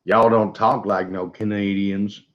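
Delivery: slow mock Texan drawl; Texan accent. Imagined Texan doubting the Canadians, mock Texan accent. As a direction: lightly put on a Southern US drawl. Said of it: "Whereas people in Texas".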